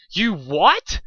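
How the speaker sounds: loud high outraged scream. Acted. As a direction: shriek it in disbelief. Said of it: "she screamed".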